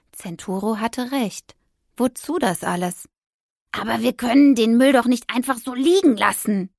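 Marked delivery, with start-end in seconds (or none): 3.7-6.7 lament. Acted. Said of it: "klagte sie".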